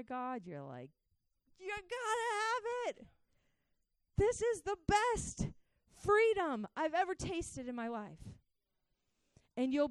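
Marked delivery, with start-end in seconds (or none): 1.6-8.3 high, stretched-out cry of delight; ecstatic enthusiasm. Acted. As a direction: draw it out, thrilled and high-pitched. Acting out someone thrilled by God's love.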